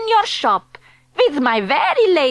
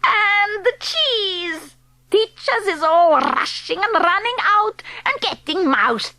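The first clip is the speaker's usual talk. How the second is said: gleeful witch leader; 4 semitones higher than usual. Acted. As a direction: relish every grisly detail. Grand High Witch gloating.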